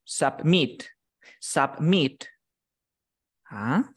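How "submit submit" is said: Submit said as sapmit, clearly; teacher models Submit for repeating; model pronunciation. Shown as a demonstration. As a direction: Submit spoken slowly and clearly to copy. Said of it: "se pronuncia así".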